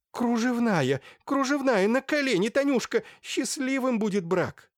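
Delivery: high, loud keening chant; sing-song ecstatic wailing; ecstatic lament. A narrator's reading. Merchant's wife rejoices over the rag, high keening chant. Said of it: "запричитала".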